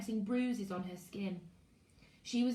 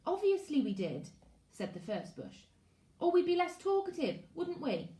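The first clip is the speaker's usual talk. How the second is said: put-on high, loud sarcastic girl's voice; a cheeky girl mocking him; 7 semitones higher, 3 dB louder than usual.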